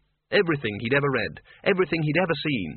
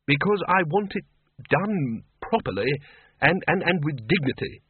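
snapped; 4 semitones higher than usual. Acted. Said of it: "snapped the Arch-Chancellor".

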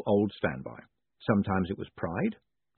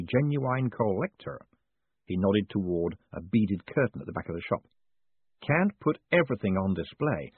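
pin-shop man. Acted. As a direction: draw out a discreet offer.

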